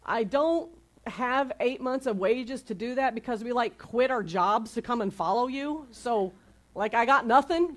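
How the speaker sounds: mildly exasperated, pitch lifted on the excuses; imagined disciple's mock protest; protesting disciples. Disciples protest to Jesus about the impossible order, mildly exasperated. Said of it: "in my head, this is what they said".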